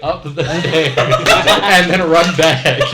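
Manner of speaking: laughing through the words, slowing down. Real, not acted. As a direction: giggle out the end of the plan. Laughing while describing plan.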